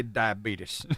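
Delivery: diabetes said as "dia-BEE-tus"; light impression, diabetes ending in "-beetus"; Wilford Brimley. Co-host wishes the singer had said it, light celebrity impression. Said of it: "it reminded me of Wilford Brimley".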